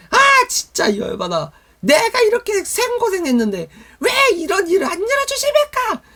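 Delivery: high, loud mock tantrum at God; 짜증내며 따짐. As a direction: act out an exasperated complainer, voice climbing far up. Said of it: "막 하나님께 막 짜증내는 사람". (과장된 고음으로 열받아 따지듯이)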